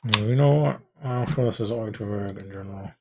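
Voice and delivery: talking around a penny in the mouth; words slurred by a coin in the mouth. Real, not acted. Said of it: "Yes, I have a penny in my mouth".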